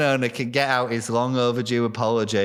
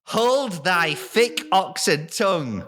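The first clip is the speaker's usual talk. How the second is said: goblin prince declaiming; 4 semitones higher than usual. Acted.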